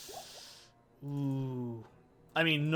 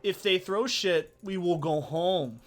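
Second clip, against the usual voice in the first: bitchy, whiny mock threat; slow, raised whine, imitating a petulant rock star; 4 semitones higher, 4 dB louder, slower than usual. Singer threatening the crowd through a translator, bitchy whine. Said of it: "bitchy, whiny voice".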